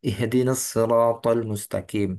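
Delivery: slow, drawn-out "Ihdinas siratal mustaqim"; measured recitation, emphatic s in "siratal"; Asim recitation with sad. Shown as a demonstration. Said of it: "qiraah Asim itu bukan so".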